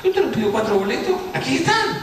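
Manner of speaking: very high mock-clerk voice; exasperated clerk. Ticket clerk reminds buyer of his request, high-pitched insistence. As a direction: climb into a squeaky, insistent imitation.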